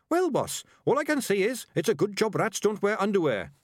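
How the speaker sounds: high-pitched little rat voice; cheeky rescued rat. A narrator's reading. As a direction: chipper sidekick cracking a joke.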